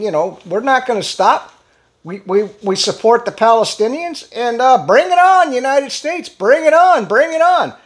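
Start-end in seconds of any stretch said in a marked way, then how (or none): 0.5-4.8 defiant mock statement. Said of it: "Yemen came out with a huge statement saying". 4.9-5.5 mock defiant shout. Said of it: "huge statement saying". 5.5-6.3 defiant mock statement. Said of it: "Yemen came out with a huge statement saying". 6.3-7.7 mock defiant shout. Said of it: "huge statement saying".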